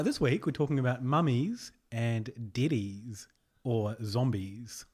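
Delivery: slow, drawn-out Kiwi accent; stretching mummies and deadies slowly; New Zealand accent. Shown as a demonstration. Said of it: "he did a weird thing with his voice".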